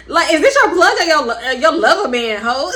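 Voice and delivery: laughing through a teasing question; laughing tease. Real, not acted. Teasing her friend about the plug, laughing. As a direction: crack up while teasing her.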